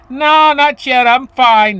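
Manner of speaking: mock holler up to someone far above; retold yell back. Simpleton jumper answers his worried friend, cheerful mock yell. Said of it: "he yells back up at the other guy".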